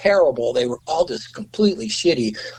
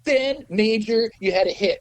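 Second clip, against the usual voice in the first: pitched-up record exec giving advice; schmoozing producer; 8 semitones higher than usual. Retold or imitated. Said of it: "he goes".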